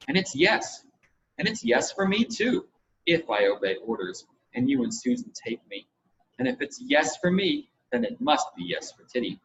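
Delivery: put-on a little boy thrilled he can come too; eager young Roger. Roger voiced by reader.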